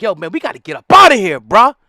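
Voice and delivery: urgent escape plea. Retold or imitated. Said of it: "Back to the plantation when it's like".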